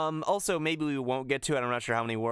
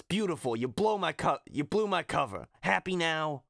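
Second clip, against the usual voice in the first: lightly voiced annoyed trainer, a little higher; sarcastic complaint in a light character voice; Phil; 4 semitones higher than usual. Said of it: "Phil says".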